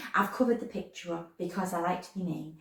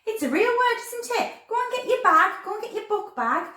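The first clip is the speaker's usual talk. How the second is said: excited; 13 semitones higher, 4 dB louder than usual. Real, not acted. Playful praise to kids.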